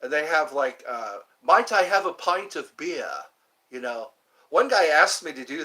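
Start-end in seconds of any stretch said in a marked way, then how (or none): 1.4-3.1 higher, louder British request; British accent. Acted. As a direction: order like a put-on Englishman. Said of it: "I like the British accent too".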